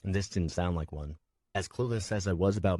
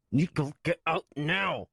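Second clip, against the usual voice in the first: put-on slow, gritted command to the boy; mild angry order; 10 semitones higher, 3 dB louder, slower than usual. Swen ordering Nico out, gritted anger. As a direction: force it through clenched teeth. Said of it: "His teeth were clenched".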